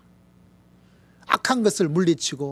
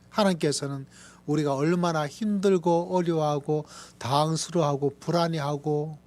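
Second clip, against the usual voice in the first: ordinary talk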